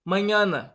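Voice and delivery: mañana with ñ said like Portuguese nh; ñ palatal en mañana; Spanish ñ. Shown as a demonstration. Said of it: "Um outro exemplo".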